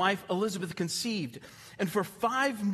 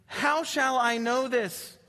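incredulous; 6 semitones higher, 3 dB louder, slower than usual. Acted. Zechariah's doubting question voiced.

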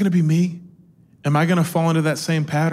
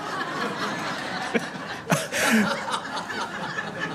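laughing; 5 semitones higher, 9 dB quieter than usual. Real, not acted. Laughing after his own punchline.

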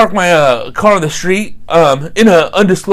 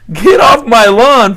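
laughing; 4 semitones higher, 4 dB louder, slower than usual. Retold or imitated. Repeated while laughing.

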